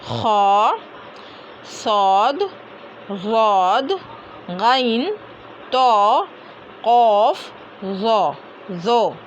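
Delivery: ख, सौद, वद, गैन, तो, कौफ, ज़ो drawn out, full and rounded; full-mouth heavy letters. Shown as a demonstration. Teacher repeating the mustaliya letters, heavy recitation. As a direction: fill the mouth on each letter, ख to ज़ो, and hold it. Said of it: "मुंह भर कर अदा होता है".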